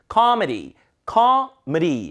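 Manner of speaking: 코미디 in English as "KAH-muh-ree"; ending like 무리. Shown as a demonstration. Teacher modelling, 코미디 ending near 무리. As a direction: stress the first syllable of 코미디, flap the d. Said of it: "무리에 가깝죠".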